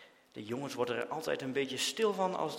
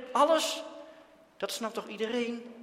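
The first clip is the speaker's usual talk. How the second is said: irritated retort; 9 semitones higher than usual. A narrator's reading. Dirk retorting angrily to Jan. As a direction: throw the word back at him.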